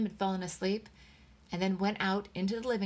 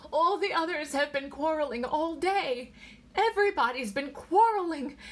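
high, distressed outpouring; wailing; 6 semitones higher, 3 dB louder than usual. A narrator's reading. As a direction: lament it all, high-pitched. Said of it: "She wailed".

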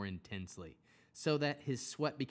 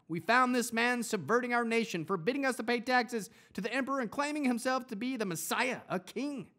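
higher, louder accusing cry; loud accusation; 11 semitones higher, 6 dB louder than usual. Acted. Accusers before Pilate, loud and higher. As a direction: denounce him to the governor. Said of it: "they started accusing him".

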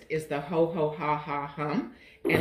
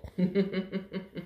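little giggle; 5 dB quieter than usual. Shown as a demonstration. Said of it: "a little giggle".

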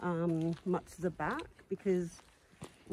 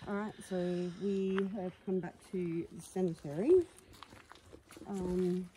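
talking through a face mask; muffled voice behind a mask. Real, not acted. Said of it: "hear me with this mask on".

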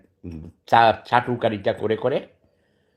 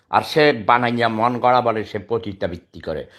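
normal talking voice

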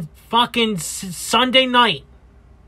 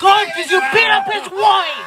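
high-pitched scolding yell; heckling shout; 9 semitones higher, 3 dB louder than usual. Acted. Heckler rebuking a man who beat up a wife, heckling shout.

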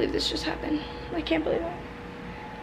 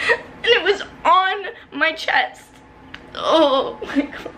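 tearful laughing; 3 semitones higher, much slower than usual. Real, not acted. Retelling bug on chest.

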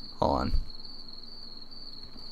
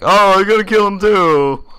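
mock eager urging; 8 semitones higher, 7 dB louder than usual. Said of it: "I've been like".

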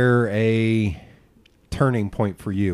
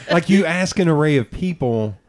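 high burst of laughter carrying into louder words; laughing; 8 semitones higher, 6 dB louder than usual. Real, not acted. Host cracking up at the guest's flat no, high and loud. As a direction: crack up then push on.

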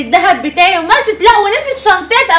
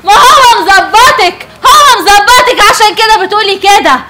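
angry accusation; 4 dB louder than usual. Acted. Wife accusing the doorman's wife of covering up, loud. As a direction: drag out the accusation loudly.

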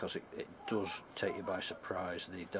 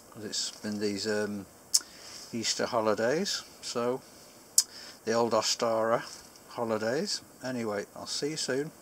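talking around clenched pipe; pipe in mouth; 3 semitones higher, 5 dB louder than usual. Real, not acted. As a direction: lips partly closed on stem. Seen 5: Pipe clenched in teeth at the mouth corner throughout the labelled words.

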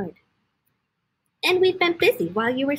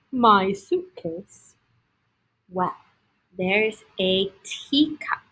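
lower, slow and unhurried; slow stranger voice; 3 semitones lower, slower than usual. Acted. Tired stranger telling the animals, slow low voice. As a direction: answer slowly, taking your time.

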